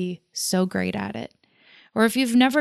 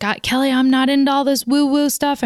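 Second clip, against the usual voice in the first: imitating grandfather; 6 semitones higher than usual. Granddaughter quoting her grandfather dismissing woo-woo, mock higher grandpa voice. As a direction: lightly play your stubborn Baptist grandfather. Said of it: "and he's like".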